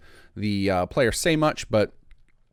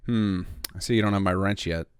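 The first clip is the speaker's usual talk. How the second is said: disappointed. Acted. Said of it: "We'll make it disappointed".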